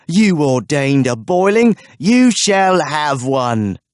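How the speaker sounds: loud, slow, drawn-out sentence of doom; vengeful pronouncement. A narrator's reading. Smith condemns the lord, slow vengeful shout. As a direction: pronounce his fate.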